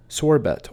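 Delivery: sherbet said SHER-bert; common mispronunciation. Shown as a demonstration. Teacher showing viewers a wrong way. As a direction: say sherbet with an extra r. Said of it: "often mispronounced as sorbet or".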